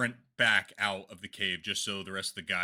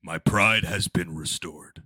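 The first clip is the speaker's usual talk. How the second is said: proud declaration; 4 semitones lower, 3 dB louder, slower than usual. Acted. Character triumph after whisker.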